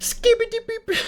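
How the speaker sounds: high squeaky robot beeps; toy robot voice. Acted. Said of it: "This is the worst intro ever".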